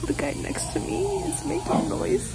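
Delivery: hushed nervous whisper in the dentist chair; scared whisper. Real, not acted. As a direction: whisper it, frightened. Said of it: "I'm so scared".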